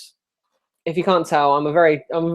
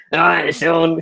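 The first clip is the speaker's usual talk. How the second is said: a moaning mum, lightly voiced; moany mum imitation. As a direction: whine it like his mum mocking him. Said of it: "sounds kind of moany".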